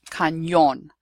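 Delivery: "cañón" said kahn-YOHN. Shown as a demonstration. Teacher giving an example word, "cañón" with clear ny. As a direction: glide from n into y in "cañón". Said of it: "pronounced as if there is".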